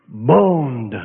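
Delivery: put-on "Bond" in a light, low English accent; a mild English-accented "Bond". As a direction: say "Bond" the British way, rounded and clipped. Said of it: "Little English accent".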